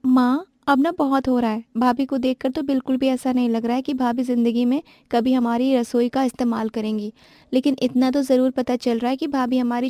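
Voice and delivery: lightly voiced girl grumbling to mother; young sister-in-law complaining. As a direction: whine to mother about the bhabhi.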